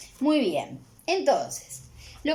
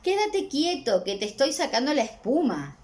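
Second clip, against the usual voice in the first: mother rinsing hair, lightly firm; 6 semitones higher than usual. Acted. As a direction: hold the squirming kid still. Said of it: "le dice la mamá".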